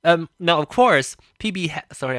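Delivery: talking while eating candy; mouth full. Real, not acted. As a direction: speak around a candy in your mouth. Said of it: "I'm eating candy".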